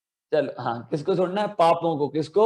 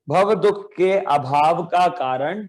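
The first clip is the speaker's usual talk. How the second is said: slow, drawn-out chanted recitation of a poem line. Shown as a demonstration. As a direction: recite it slowly for children to echo. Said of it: "तो कैसे?". (धीमा, खिंचा हुआ पाठ)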